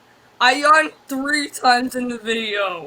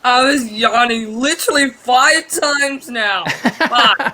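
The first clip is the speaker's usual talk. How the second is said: laughing; 3 dB louder than usual. Real, not acted. Laughing about yawning count.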